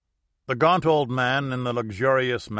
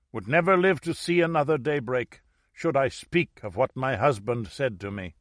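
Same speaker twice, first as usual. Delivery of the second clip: put-on raised, urgent old woman; 4 semitones higher than usual. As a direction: pour out the secret at last. Old woman confesses the threats.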